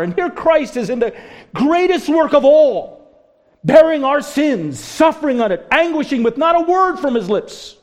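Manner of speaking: high, loud, impassioned preaching; preaching at full force. Real, not acted. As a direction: drive the sermon to its climax. Preaching climax.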